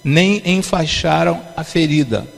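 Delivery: slow, measured Bible reading in separated phrases; solemn scripture reading. Acted. Preacher reading Ezekiel's rebuke to the church, solemn and measured. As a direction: read out the rebuke slowly, phrase by phrase. Reads Bible verse aloud to congregation.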